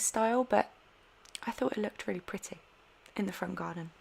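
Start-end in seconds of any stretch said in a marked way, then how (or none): 1.5-3.9 slurping Coke between words; while sipping a drink. Real, not acted. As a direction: talk around a sip of Coke. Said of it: "Sorry, I'm drinking Coke as well".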